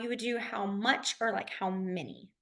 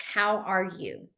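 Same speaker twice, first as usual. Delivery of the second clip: slow demo question; 3 semitones lower, 3 dB quieter, much slower than usual. Shown as a demonstration. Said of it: "if you were gonna ask".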